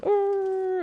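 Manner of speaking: high, loud mock snarl; wolf snarl. Wolves snarling as the morale meter starts, high and loud. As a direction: growl it out like a pack of wolves. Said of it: "they're all going".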